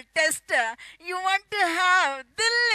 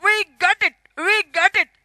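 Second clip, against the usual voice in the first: shouted slogan; 2 semitones higher, 6 dB louder, faster than usual. Acted. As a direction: punch the slogan out. Ad jingle tagline.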